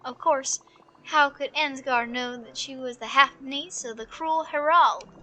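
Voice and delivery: measured storybook reading; story narration. A narrator's reading. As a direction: tell the tale evenly, with drama held back. Reads game story aloud.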